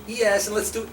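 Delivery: mock German movie villain. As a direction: play a sadistic film German relishing the torture. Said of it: "And then they start beating".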